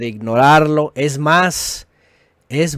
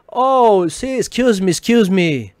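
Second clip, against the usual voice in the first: caught-out apology; 5 semitones higher, slower than usual. Retold or imitated.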